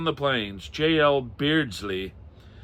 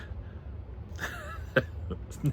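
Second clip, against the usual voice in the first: laugh; 12 dB quieter than usual. Real, not acted. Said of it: "Now I'm laughing".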